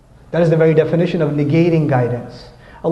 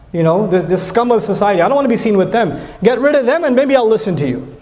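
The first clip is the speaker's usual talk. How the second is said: higher-pitched haughty complaint; a touch of snooty contempt; mock snobbish disdain; 4 semitones higher than usual. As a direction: play the millionaire looking down on the poor. Acting rich man scorning poor believers.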